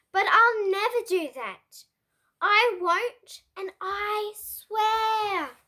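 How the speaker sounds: loud, indignant greedy pug ranting; angry Pig. Acted. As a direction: snap at Trevor like a spoilt pig who won't share. Pig's angry outburst at Trevor.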